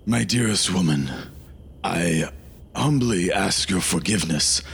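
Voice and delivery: earnest, formal knightly plea, measured; courtly paladin. Acted. Amar humbly pleading to the angry woman, formal and earnest. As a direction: beg forgiveness like a pious knight.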